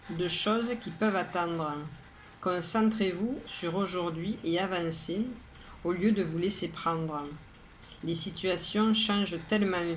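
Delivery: measured, even poem reading with pauses between lines; poem recitation. Acted. Poet reads today's poem to listeners, measured recitation. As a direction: recite it evenly, line by line, each phrase set apart. Rereads the poem a second time.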